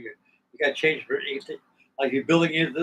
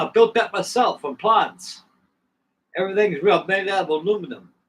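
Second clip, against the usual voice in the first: lightly put-on German accent, measured and pitched up; 5 semitones higher, 3 dB louder than usual. German pilot on the plane he built, light German accent. German builder boasts of his model.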